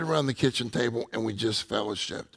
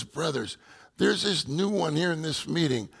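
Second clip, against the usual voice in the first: higher-pitched, urgent retold plea; desperate pleading; 5 semitones higher than usual. Praying brother urges the others for a new one, mildly desperate. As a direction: imitate a brother earnestly pleading for a newcomer. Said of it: "even in a desperate way".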